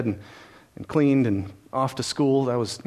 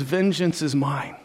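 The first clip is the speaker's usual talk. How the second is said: solemn slow quote; slower than usual. Acted. Quoting God solemnly.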